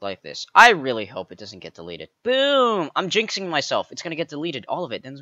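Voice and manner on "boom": ordinary talk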